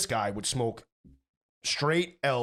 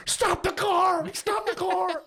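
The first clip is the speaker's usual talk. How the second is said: very high, loud mock-hysterical wail; hammed-up crying shriek, words dragged out; hysterical crying plea; 4 dB louder, much slower than usual. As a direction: act out a tearful, panicked demand. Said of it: "he's crying, drooling on himself".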